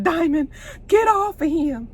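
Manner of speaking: high-pitched urgent order, retold; acted command. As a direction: play a woman ordering a man off someone. Acts out gun-point command.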